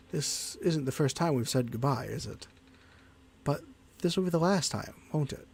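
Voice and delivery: raspy, worn-out voice; hoarse from long talking. Real, not acted. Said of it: "the rasp is literally just getting to my voice now".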